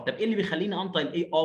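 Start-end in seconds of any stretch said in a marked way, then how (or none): 1.3-1.4 "آ" as a heavy, backed ah; emphatic, dark vowel. Shown as a demonstration. Teacher explaining A before R, emphatic dark vowel. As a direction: say "آ" with a velarized open sound. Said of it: "مفخمة كده".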